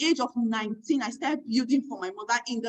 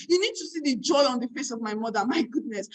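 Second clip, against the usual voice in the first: ordinary talk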